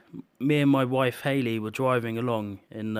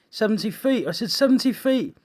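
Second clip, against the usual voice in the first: high, loud incredulous echo; stunned by the number; shocked disbelief; 10 semitones higher, 6 dB louder than usual. Retold or imitated. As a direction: driver reeling at the news. Shocked repetition of wave height.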